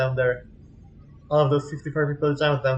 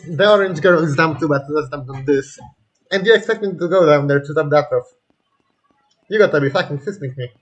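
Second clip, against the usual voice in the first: angry rant; 7 dB louder than usual. Real, not acted. Ranting at game characters.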